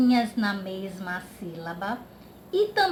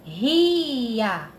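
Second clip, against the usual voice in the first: drawn-out word. Shown as a demonstration. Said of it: "Aqui tem a palavrinha ria".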